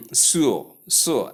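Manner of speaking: "su" with plain s for sh; mispronunciation demo. Shown as a demonstration. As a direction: show the error "su", like Sue. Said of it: "Common error".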